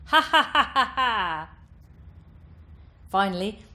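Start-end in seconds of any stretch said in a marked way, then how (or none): 0.1-1.5 loud, high, piercing witch cackle; twangy witch cackle. Shown as a demonstration. Coach demonstrating twang, piercing witch cackle. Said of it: "And with twang".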